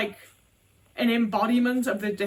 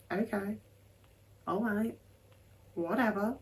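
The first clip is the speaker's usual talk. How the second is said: dismissive mum; 7 dB quieter than usual. Retold or imitated. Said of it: "she'd just be like".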